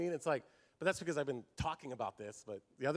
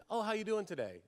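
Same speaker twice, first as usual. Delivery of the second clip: fake cheery greeting; 7 semitones higher than usual. Mock church greeting.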